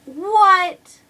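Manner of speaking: can't believe the recount; shocked what. Retold or imitated. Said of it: "I'm sitting there like".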